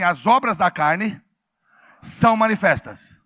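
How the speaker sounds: loud chant for the congregation to repeat; loud call-out. Shown as a demonstration. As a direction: proclaim the verse in two firm phrases. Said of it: "Então vamos falar bem alto?".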